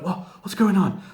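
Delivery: baffled, looking around; confused Cena. Retold or imitated. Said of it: "Cena's like".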